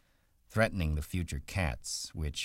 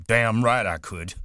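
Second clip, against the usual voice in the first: loud, higher, bursting with eagerness; eager Lenny shout; 7 semitones higher, 9 dB louder than usual. Acted. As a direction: blurt it out, proud and sure.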